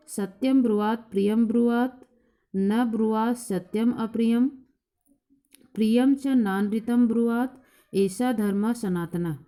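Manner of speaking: a teacher chanting a verse for the class; shloka recitation. Acted. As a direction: recite the Sanskrit verse deliberately, word by word.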